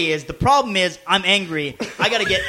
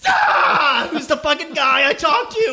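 mock angry shout; 8 semitones higher, slower than usual. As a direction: call back and yell, half-joking. Retold angry call back.

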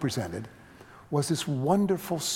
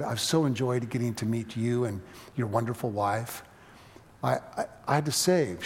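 sweet calm voice; 2 semitones lower than usual. Retold or imitated. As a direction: speak humbly and tenderly, unhurried. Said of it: "she had this sweet, calm voice".

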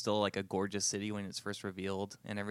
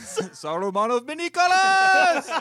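laughing; 15 dB louder, slower than usual. Real, not acted. Laughing joke shout.

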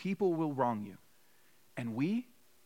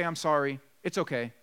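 mock kid exchange. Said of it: "you don't just say".

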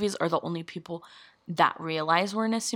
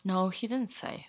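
soft sheepish whisper; 5 dB quieter than usual. Real, not acted. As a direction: admit it in a whisper.

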